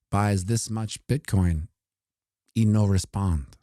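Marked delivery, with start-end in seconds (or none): 2.6-3.6 put-on Mexican accent. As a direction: toss it off in a hint of a Mexican accent. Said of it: "That's my Mexican accent".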